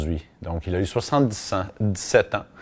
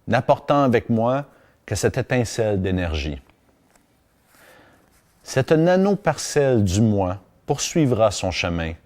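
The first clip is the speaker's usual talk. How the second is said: poem reading. Acted. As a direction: read each line gravely, letting it breathe. Reads uncle's farewell poem aloud. (lecture lente et solennelle d'un poème)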